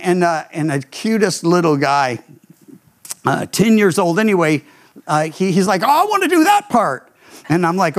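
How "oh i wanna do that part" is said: put-on high, quick, eager kid voice. Ten-year-old volunteering for the part, eager and higher. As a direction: jump at the chance like a boy.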